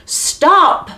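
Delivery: a sharp, high cry of stop; exclaimed stop. Acted. Butter maid halting the giants before they eat, sharp cry. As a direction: leap in and halt them. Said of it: "Beatrix exclaimed".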